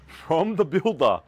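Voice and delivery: words broken by real laughter; laughing in disbelief at the gift. Real, not acted. Laughing as he tells about the builder's flowers.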